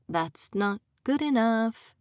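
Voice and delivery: slow, lilting sing-song taunt; mild mocking sing-song. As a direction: draw it out like a playground taunt. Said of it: "he said in a sing-song voice".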